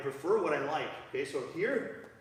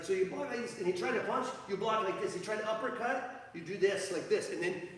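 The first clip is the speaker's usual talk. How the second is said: higher-pitched mock Canadian coaching; terrible Canadian accent; 3 semitones higher than usual. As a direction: mimic a Canadian hockey player demonstrating blocks. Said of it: "Canadian accent".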